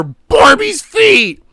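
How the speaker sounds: high drawn-out mock scream; MatPat. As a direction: scream it in someone's ear, stretched and very high. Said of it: "MatPat screaming in my ear".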